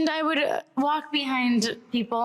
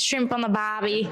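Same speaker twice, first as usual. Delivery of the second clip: attempted Australian accent, lower; 4 semitones lower than usual. Shown as a demonstration. Says she can't do an Australian, attempted Australian accent. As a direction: have a go at Aussie. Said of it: "I can't do an Australian".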